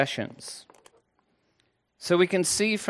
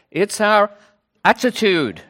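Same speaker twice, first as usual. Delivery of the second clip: loud, high mock Brummie accent; exaggerated Birmingham accent; 5 semitones higher, 6 dB louder than usual. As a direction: imitate a colleague in over-strong Brummie. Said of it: "your Birmingham accent isn't quite that strong".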